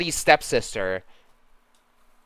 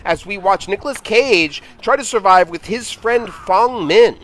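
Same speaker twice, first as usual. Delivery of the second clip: sportscaster voice; 3 semitones higher than usual. Acted. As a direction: hype up the game like a TV sportscaster. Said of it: "the sportscaster voice".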